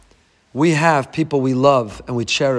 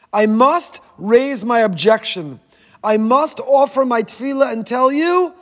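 pleading protest; 5 semitones higher than usual. Retold or imitated. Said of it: "turn to him and say".

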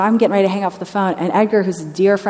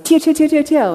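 put-on child calling out; 9 semitones higher, 5 dB louder than usual. Little boy interrupting the prayer.

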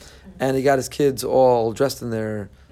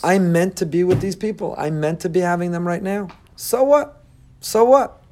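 cheerful shrug; 5 semitones higher than usual. Pretend. Moshe shrugging off the people in joy, high and bright. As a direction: brush it off with joy. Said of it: "he'd say".

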